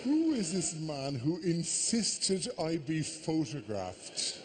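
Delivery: slow, drawn-out disbelief; mock mouthing. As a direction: stretch each word as if mouthing it across a bar. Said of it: "mouthing the words".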